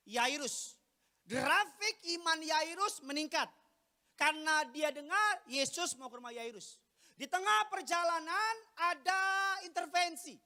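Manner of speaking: high, loud, emphatic sermon delivery; full-force preaching. Real, not acted. Preacher telling how Jesus' journey was interrupted, forceful preaching. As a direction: punch out each phrase slowly and loudly.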